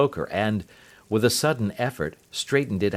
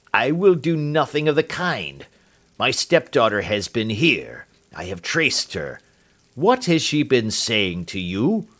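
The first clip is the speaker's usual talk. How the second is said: angry demand. Acted. Roylott demands answers.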